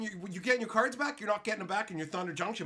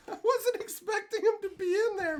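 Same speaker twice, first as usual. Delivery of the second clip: higher, laughing through the words; 11 semitones higher than usual. Real, not acted. Surprised by a gift from a buddy, laughing. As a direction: laugh while talking.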